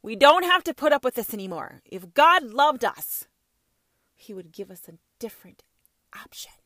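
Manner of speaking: mocking whiny quote. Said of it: "you had the audacity to say".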